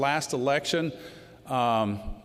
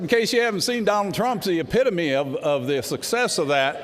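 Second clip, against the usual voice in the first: emphatic retort; 5 semitones higher, 4 dB louder than usual. Retold or imitated. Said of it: "I said".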